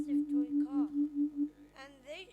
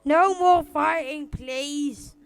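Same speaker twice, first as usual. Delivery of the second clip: acted plea; 6 dB louder, slower than usual. Child acts out brother's plea.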